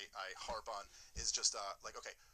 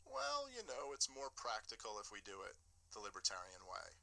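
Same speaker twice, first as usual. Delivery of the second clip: Gary Johnson; 6 dB quieter than usual. Retold or imitated. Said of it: "has this way of selling the libertarianism".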